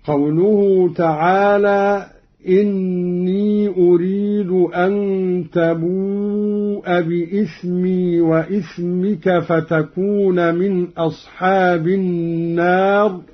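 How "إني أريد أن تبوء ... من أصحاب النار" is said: إني recited with a still ya, inni; Quran recitation. Shown as a demonstration. Teacher recites first in the usual reading, inni. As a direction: end إني on a long i with no vowel. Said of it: "قرأ قالون بفتح همزة إني".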